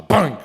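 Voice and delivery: loud single clank sound; imitated pot bang. Grandson imitating grandma's morning pot banging, loud imitated clank. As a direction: mimic a pot slammed down.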